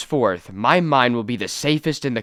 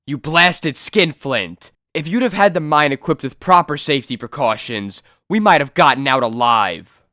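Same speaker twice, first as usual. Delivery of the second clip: furious accusation; 2 semitones higher, 3 dB louder than usual. Acted. Miner rages at stingy mine owner.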